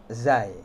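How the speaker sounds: "zai" with a plain buzzed z; careful teacher's "zai"; ordinary Z. Shown as a demonstration. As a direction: say "zai" with clean Z. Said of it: "Ini huruf Z biasa".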